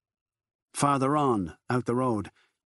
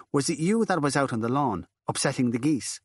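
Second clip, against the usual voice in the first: reproving nun; 4 semitones higher than usual. Acted. Nun turns on Furlong.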